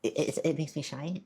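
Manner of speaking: flustered restarts, tripping on each word; real shy stutter; shy stammer. Real, not acted. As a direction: stumble over the words, bashful. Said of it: "I'm sorry, I'm stuttering".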